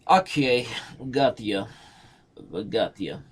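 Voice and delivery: mock Russian accent. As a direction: answer in a put-on Russian accent. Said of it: "That is my Russian accent".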